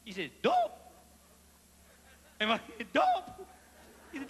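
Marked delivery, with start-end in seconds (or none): 0.4-0.8 squeaky, much higher indignant "Dope?"; excited voice change. Retold or imitated. Uncle outraged at the steward, squeaky high cry. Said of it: "when they get excited, their voice changes". 2.9-3.5 higher indignant "Dope?" repeated; excited voice change. Retold or imitated. Uncle repeating the charge, raised indignant pitch. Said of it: "their voice changes".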